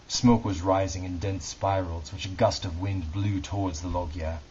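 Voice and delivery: measured, dramatic book reading; story narration. A narrator's reading. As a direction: read it like a solemn audiobook, pausing between phrases. Reads historical novel aloud.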